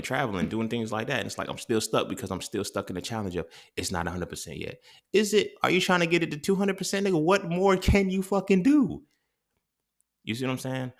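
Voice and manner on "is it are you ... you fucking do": much higher and louder, incredulous; mock yourself in disbelief, slowing at the end; exasperated self-scolding. Scolding himself rhetorically.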